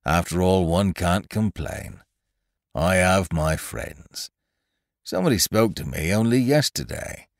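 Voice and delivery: slow, mournful donkey musing; gloomy. Acted. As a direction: sulk it out gloomily. Eeyore gloomy.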